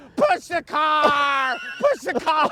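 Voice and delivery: very high, loud, frantic put-on scream, car drawn out. Retelling being pinned under a car, speaker re-enacts screaming to his boss, retelling a scream. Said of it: "I'm screaming to my boss and his son".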